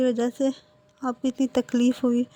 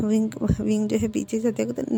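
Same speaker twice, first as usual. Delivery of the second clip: ordinary delivery, nothing marked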